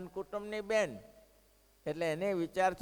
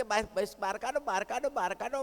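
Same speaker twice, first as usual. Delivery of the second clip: mock crowd shout, higher and higher; rising jeering cry of the crowd; 4 semitones higher than usual. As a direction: yell to throw her out, retold in earnest. Crowd demands she be thrown out.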